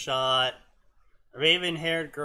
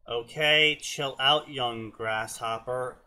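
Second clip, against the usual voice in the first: put-on Chinese accent; 2 semitones lower than usual. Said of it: "Orangey said in a Chinese accent".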